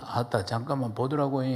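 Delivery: lightly imitated Jeolla speech; Jeolla dialect. Shown as a demonstration. Preacher translating polite standard Korean into Jeolla dialect. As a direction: say it with a Jeolla lilt. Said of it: "전라도는".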